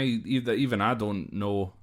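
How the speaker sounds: normal talking voice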